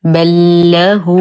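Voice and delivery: very slow recited بل له, two lams as one held ل; merged doubled lam. Shown as a demonstration. Teacher modelling idgham, بل له recited slowly as one doubled lam. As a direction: chant بل له with one doubled l, long drawn out. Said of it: "ننطقهما وكأنهما حرف واحد مشدد".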